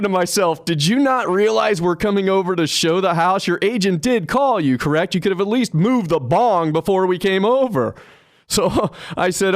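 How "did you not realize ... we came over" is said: higher-pitched, incredulous mock rebuke; mock indignation. Agent silently scolding the homeowner about the bong, mock indignant. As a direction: scold him in disbelief, playfully exaggerated.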